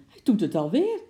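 high, loud worked-up cry; excited. Acted. Wife to husband about the car, loud excited. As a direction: insist it's happening again. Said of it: "riep ze opgewonden".

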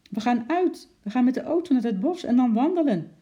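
put-on high, loud, excited child; delighted calling out. A narrator's reading. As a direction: burst out with the happy news. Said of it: "Opgetogen holde Lotje".

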